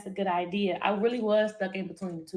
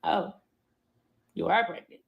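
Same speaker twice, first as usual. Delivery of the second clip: low, unhurried calm reaction; 3 semitones lower than usual. Retold or imitated. Boyfriend takes in the pregnancy test result, calm. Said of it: "He is so calm".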